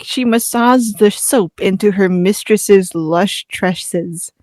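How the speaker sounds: slow, flirty reading; flirtatious voice. Acted. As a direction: read it slow and suggestive. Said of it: "just a flirtatious voice".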